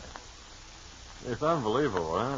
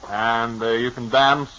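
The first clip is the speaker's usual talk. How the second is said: ad read; 4 dB louder than usual. Acted. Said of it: "my own capable, distinguished manner".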